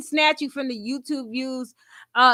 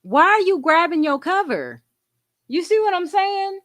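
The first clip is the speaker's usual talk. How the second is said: mock angry father; 8 semitones higher, 4 dB louder than usual. Mocking the dad's tone.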